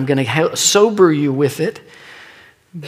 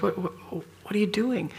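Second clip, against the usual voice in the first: bewildered question; 6 semitones higher, 11 dB quieter than usual. Retold or imitated. Confronting the elder, bewildered.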